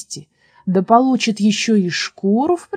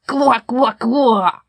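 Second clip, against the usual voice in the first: croaking frogs; 3 semitones higher, 4 dB louder, much slower than usual. A narrator's reading. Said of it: "лягушки остались при своём".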